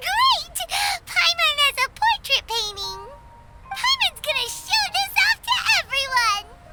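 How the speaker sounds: high, gleeful exclamations; excited, triumphant glee; delighted. Acted. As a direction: celebrate proudly, pitch lifted. Delighted with her new portrait.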